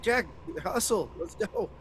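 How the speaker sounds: high-pitched urging without real volume; half-scream it, drawn out and high; mock scream. Player hurries Jack along, mock screaming. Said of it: "I'm screaming at Jack".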